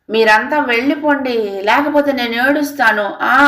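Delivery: a hint of put-on lunacy, pitched high; feigned madness. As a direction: whine it like a crazed girl playing a child. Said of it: "పిచ్చిగా చూస్తూ అంది".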